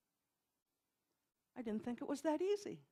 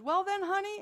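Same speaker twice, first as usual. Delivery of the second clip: lightly imitated Southern drawl, pitched up; higher, rough stab at a Southern drawl; 6 semitones higher, 4 dB louder than usual. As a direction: attempt a teacher's Southern drawl. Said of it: "in her best Southern drawl".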